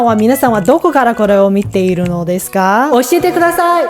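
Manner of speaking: speaking with echo; echo effect. Real, not acted. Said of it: "I really love that echo effect".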